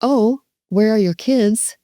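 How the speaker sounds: sincere, matching rephrase; genuine. Shown as a demonstration. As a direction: reflect it back sincerely, without mocking. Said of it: "Just be genuine".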